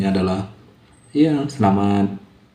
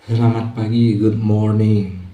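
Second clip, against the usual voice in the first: slow greeting with a cigarette in mouth; 3 dB louder, slower than usual. Real, not acted. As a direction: talk round a lit cigarette. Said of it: "Belajarnya santai sambil merokok".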